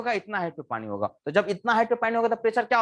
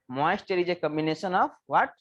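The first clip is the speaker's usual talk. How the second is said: slow question then answer; slow classroom recap; 2 semitones lower, much slower than usual. Shown as a demonstration. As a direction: check they wrote it down. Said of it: "ये थोड़ा सा लिख लेना".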